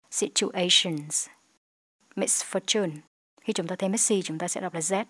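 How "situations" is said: "Situations" slowly with a clear final z; ending sound demo. Shown as a demonstration. Teacher models the final z in "Situations". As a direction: stretch "Situations" and land the z.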